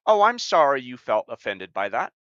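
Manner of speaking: a hint of a smug fake-sorry manipulator; role-playing a manipulator. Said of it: "role play this".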